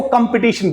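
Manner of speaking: "कंपटीशन" as kum-pi-TEE-shun; weak KUM opening on "कंपटीशन"; common mispronunciation. Shown as a demonstration. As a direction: show the wrong "कंपटीशन" with kum and pi. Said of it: "It is again incorrect".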